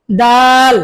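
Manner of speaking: a light crisp দাল; light dal. Shown as a demonstration. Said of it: "পাতলা". (পাতলা করে দাল)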